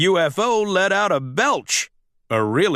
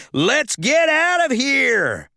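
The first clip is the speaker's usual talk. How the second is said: urgent shout; 11 semitones higher, slower than usual. A narrator's reading. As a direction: urge everyone out. Mater escaping the base.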